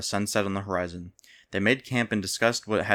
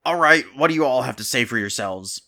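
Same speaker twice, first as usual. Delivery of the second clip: loud commanding king voice; stern king; 4 semitones higher, 5 dB louder than usual. A narrator's reading. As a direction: demand answers from the throne. King questions the thugs.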